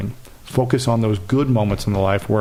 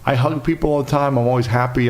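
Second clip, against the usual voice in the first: defensive protest; 4 semitones higher than usual. Retold or imitated. Retelling his defensive reply.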